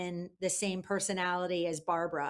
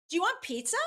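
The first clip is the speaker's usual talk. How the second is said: Barbara voice; 9 semitones higher, much faster than usual. Retold or imitated.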